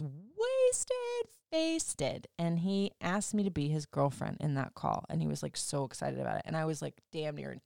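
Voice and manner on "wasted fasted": put-on high, slow, sloppy drunk voice; mock drunk slur. Recalling the drunk boyfriend's call, mock slurred drunk voice. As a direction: stretch it out like a drunk on the phone.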